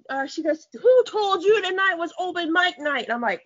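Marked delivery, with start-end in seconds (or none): 0.7-3.0 higher, imitated angry challenge; acting out her indignant telling-off; pissed-off retort. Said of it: "she pissed".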